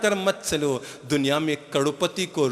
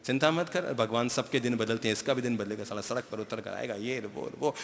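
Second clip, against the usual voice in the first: muttering gossip; 6 semitones lower, 11 dB quieter than usual. Retold or imitated. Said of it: "तो लोग कहेंगे".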